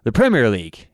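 "Premier" said PREM-ier, stress on the first syllable; "Premier" with the first syllable leaned on; British stress. Shown as a demonstration. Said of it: "emphasis is on the other syllable".

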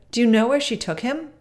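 a high, loud eager "Oh"; girl hears news of Kai, loud and eager; crying out. A narrator's reading. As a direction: gasp it out in excitement. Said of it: "cried Gerda".

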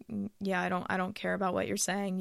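soft, quick, uninterested brush-off; dismissive brush-off. Retold or imitated. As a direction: shrug them off, quietly and fast. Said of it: "be like".

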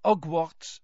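haughty schoolgirl voice; lightly voiced superior girl; snooty girl. A narrator's reading. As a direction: sniff the name out with disdain. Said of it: "distinctly heard her say".

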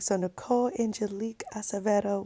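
very soft retold proposal opening; solemn tender retelling. Boyfriend addressing girlfriend before proposing, hushed and tender. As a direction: say her full name softly, as he did.

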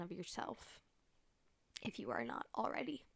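ASMR affirmations. Acted. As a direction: soothe the listener like an ASMR video. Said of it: "I'll give you some more A S M R".

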